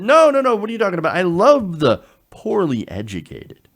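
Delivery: hammed-up protesting, pitch jumping up; mock protest. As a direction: imitate someone hurriedly waving off an accusation. Mock quote protesting too much.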